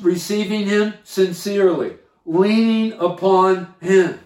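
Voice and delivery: "sincerely" and "leaning upon him" set apart, the latter slowed; deliberate emphasis. Real, not acted. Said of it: "I want to emphasize that point".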